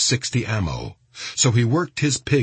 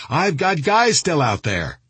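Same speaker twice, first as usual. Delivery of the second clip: high, frantic narrated yell; screaming; 7 semitones higher than usual. A narrator's reading. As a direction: cry out in alarm, pitched up. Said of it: "screaming at him".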